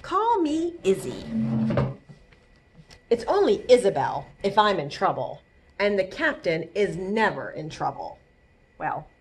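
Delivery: put-on lively read-aloud to kids; bright storytime narration for children; story reading. A narrator's reading. Librarian reading a picture book to kids, lively.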